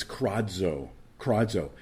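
kradzo said slowly as KRAD-zo, Greek style; Greek word said slowly. Shown as a demonstration. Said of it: "The Greek word here for cried out".

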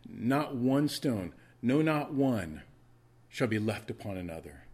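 slow, drawn-out stress on not one; strong emphasis. Shown as a demonstration. Preacher to the congregation, pressing the double negative with slow emphasis. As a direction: lean hard on not one, no not one. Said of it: "I'm placing a very strong emphasis on this".

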